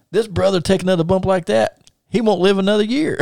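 high mock Russian wrestler voice; Ivan Koloff. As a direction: grumble a warning in a put-on Russian accent. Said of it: "staying in his Russian gimmick voice".

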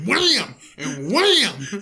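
high mock yell; hammed-up yell. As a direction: belt out the blow like a hammy action hero. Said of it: "he was like, I was like".

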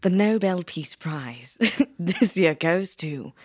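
slow ceremonial presenter; mock award announcement. Presenter announcing the Nobel winner, mock ceremonial. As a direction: draw out the big announcement.

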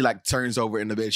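usual speaking voice

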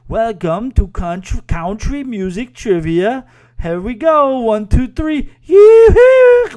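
high, slow Borat-style welcome that builds to a loud yoo-hoo shout; Borat-like accent, building to a yell. Retold or imitated. Host getting the crowd going, in a Borat accent building to a yell. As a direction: start hammy and slow, then shout the count and the yoo-hoo. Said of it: "And then she would go".

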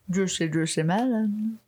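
sultry, lingering juicy melon; suggestive voice. Pretend. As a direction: make it sound naughty. Suggestive joke voice.

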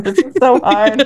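strained, agonised sigh of a voice; straining with effort. Real, not acted. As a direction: push the words out like it hurts. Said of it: "This is actually really fucking hard".

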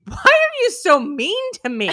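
high, slow whine; husband whines at wife, high and drawn out; whiny husband. Retold or imitated. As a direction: plead like a hurt husband. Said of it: "He goes".

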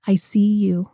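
unvoiced and intimate; whisper. Real, not acted. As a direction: breathe it like a gentle acknowledgment. Tender acknowledgment of the other.

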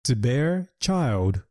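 said slowly and clearly; teacher's slow example; slow model phrase. Shown as a demonstration. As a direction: spell it out slowly for learners. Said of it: "例えば".

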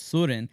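"Surin" with an umlaut-like first vowel; Scandinavian pronunciation. Shown as a demonstration. Father shows the name's sound, "Surin" with umlaut vowel. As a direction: demonstrate "Surin" with a rounded German ö sound. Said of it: "it's like an umlaut in German".

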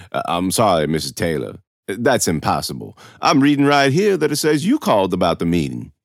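a hint of a condescending administrator; lightly voiced official, dismissive. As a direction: lightly play an official contradicting a parent. Narrator voices Mister Toll.

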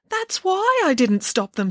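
put-on high, slow girlish protest. A narrator's reading. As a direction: explain it as if it's obvious. Samantha protests to nanny.

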